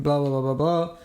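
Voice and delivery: everyday Australian accent, casual filler; general Australian accent. Shown as a demonstration. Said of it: "which is kinda what I'm speaking".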